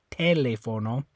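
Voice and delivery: TELÉFONO wrongly as TEH-le-fo-no; TELÉFONO with stress moved to TE; stress on first syllable. Shown as a demonstration. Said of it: "if you were stressing this one".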